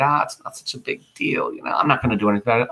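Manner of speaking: breezy fast shrug-off; imitating a careless Antony; mock dismissive. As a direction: brush it off carelessly. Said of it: "what Brutus said. Antony won't care".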